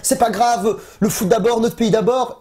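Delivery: high, eager mock fan voice; mock cheering fan. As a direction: cheer like a proud Brazilian fan. Fans cheering on Brazil.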